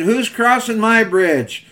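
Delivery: lightly acted troll demanding an answer; storybook troll. Troll challenges the little goat crossing his bridge, lightly voiced threat.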